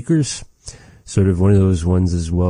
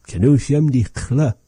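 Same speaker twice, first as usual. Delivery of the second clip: papa's words; 7 semitones higher than usual. Retold or imitated. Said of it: "and he goes".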